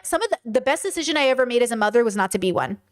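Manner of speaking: rushed, stumbling first try; tossed off fast before the restatement; quick first pass. Real, not acted. Explaining to chat, said quickly and stumbling. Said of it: "And I stand by that".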